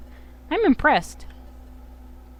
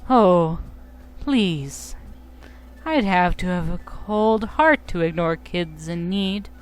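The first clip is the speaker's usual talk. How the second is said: slow, oily fake-kind villain; terrible villain voice; slower than usual. Drowsy reassuring the kids, slow and falsely kind. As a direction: drawl it like a creep pretending to be nice. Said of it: "Drowsy gets a terrible voice".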